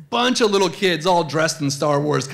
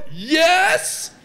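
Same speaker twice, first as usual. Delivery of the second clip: high-pitched gasp, then delighted yes; thrilled kids; 14 semitones higher, 3 dB louder than usual. Acted. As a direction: squeal it like two overjoyed children. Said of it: "both of my kids go".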